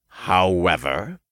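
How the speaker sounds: slow, drawn-out reservation; sighed. A narrator's reading. Archangel adds a catch, sighing. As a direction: stretch the word with a sigh. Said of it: "he sighed".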